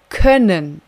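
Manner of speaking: "können" loud and drawn out; heavy, slow emphasis on "können"; stress on können. Shown as a demonstration. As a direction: lean hard and slowly on "können".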